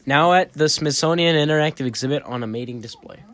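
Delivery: put-on card read in a Boston accent; Boston accent, hamming up the card. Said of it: "they're doing it in their Boston accent".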